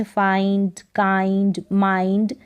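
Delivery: "फाइंड, काइंड, माइंड" as a rhyming model list; pronunciation demo. Shown as a demonstration. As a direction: stress the shared "आइंड" ending. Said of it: "इसको फाइंड करके पढ़ेंगे". (फाइंड, काइंड, माइंड में आइंड का उच्चारण)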